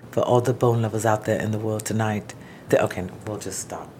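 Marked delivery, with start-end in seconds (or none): 0.1-2.3 smooth late-night DJ. Pretend. Late-night DJ dedication, slow.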